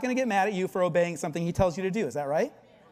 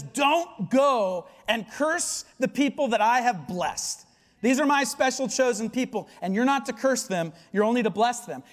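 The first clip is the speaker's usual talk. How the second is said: God speaking; 4 semitones higher, 3 dB louder than usual. Retold or imitated. God's voice in retold Bible story.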